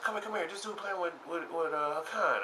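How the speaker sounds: calling out. Retold or imitated. Guy calls him over.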